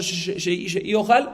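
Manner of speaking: imitating a tongue slip; stammering. Shown as a demonstration. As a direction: stutter on she before getting out sheiojal. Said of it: "tartamudeó en ese momento".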